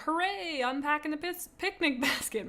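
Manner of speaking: hammed-up hooray from an eager group; cheering crowd. Everybody cheering the badger mission, mock excited. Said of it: "And everybody's like".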